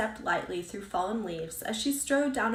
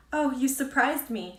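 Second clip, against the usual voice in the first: startled; 5 semitones higher, 5 dB louder than usual. Acted. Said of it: "a little breathless".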